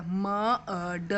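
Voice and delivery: म, अ, ड said as separate short sounds; phonic sounds. Shown as a demonstration. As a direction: sound out म, अ, ड one by one. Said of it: "phonic sound देखो इसका".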